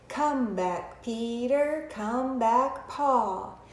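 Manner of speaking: slow finger-play chant; measured nursery rhyme in a talking voice; inside voice. Shown as a demonstration. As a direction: chant it slowly for young children. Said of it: "We're gonna start here to our inside voice".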